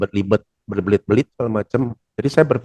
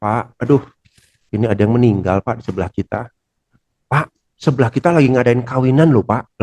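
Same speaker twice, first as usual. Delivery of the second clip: concerned tone. Shown as a demonstration. A teacher demos the right concerned way to report a death. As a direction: tell the bad news gently, with concern. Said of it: "Nah, kan beda ya".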